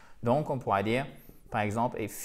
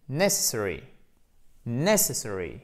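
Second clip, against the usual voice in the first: NESS stressed in "necessary", said as a model; first-syllable stress; 3 semitones lower than usual. Shown as a demonstration. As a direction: model "necessary" with the accent up front. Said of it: "on appuie sur la première syllabe". (« necessary » modèle, accent sur la première syllabe)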